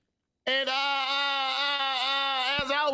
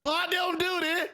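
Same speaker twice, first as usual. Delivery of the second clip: raised, higher yelling voice; yelling into the microphone; 6 semitones higher than usual. Real, not acted. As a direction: shout it out as if to someone hard of hearing. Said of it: "Sir, just speak normally into the microphone".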